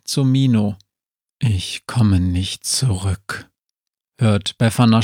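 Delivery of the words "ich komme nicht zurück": slow, lower zombie voice in her head; a weary zombie speaking slowly and low. Acted. Zombie speaks into the witch's mind, slow and low.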